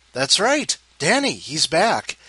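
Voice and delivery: upbeat, slow build-up; excited. Real, not acted. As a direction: hype up the return. Excited host intro.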